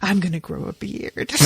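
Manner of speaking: mock drunk rave. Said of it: "yelling in her face about how everything is brilliant".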